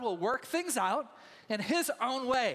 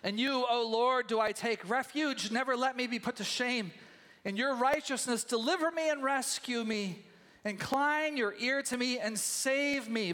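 scripture reading; 4 semitones higher than usual. Acted. Reads psalm aloud slowly.

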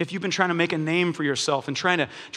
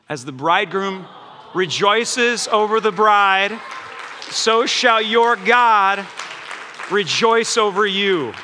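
slow, louder, drawn-out reading of the verse; scripture reading; 3 dB louder, slower than usual. Real, not acted. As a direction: proclaim each phrase slowly with weight. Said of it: "reads scripture".

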